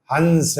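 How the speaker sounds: हंस with the air through the nose; teacher models हंस for students; nasal sound demo. Shown as a demonstration. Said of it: "तो जरा बोले".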